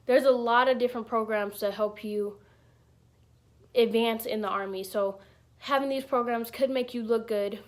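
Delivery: talking through a busted lip; words slightly thick from a swollen lip; split lip. Real, not acted. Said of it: "if you think I'm talking weird".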